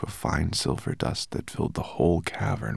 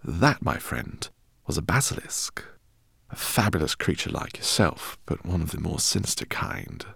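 eccentric professor. Acted. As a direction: voice him as an excitable professor. Professor speaks in story.

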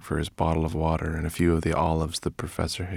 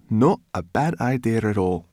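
loud, raised, grumpy growl; 6 semitones higher, 6 dB louder than usual. A narrator's reading. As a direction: growl it with relish. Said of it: "growled Sorrel".

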